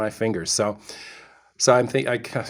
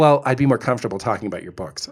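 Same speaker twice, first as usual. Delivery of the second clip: quick mock quote; faster than usual. Husband mocking his date's line, fast and dismissive. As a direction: toss off her line dismissively. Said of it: "and she says".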